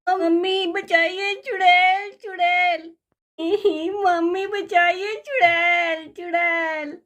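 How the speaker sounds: put-on scared child calling mummy; child screaming for help. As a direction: yell for mummy in panic.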